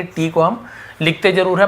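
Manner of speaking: ordinary talk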